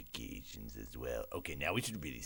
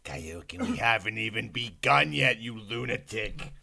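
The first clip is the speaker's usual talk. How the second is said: loud, high scolding yell; mock outrage shout; 8 semitones higher, 12 dB louder than usual. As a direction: scold the viewer at full volume.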